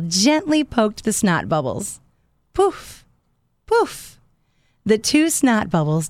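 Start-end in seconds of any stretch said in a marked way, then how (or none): 2.5-4.2 high popping poof; popping sound. Acted. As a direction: pop it high. Bubbles pop.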